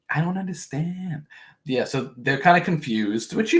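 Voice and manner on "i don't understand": put-on Staten Island accent. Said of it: "not even the right Staten Island accent".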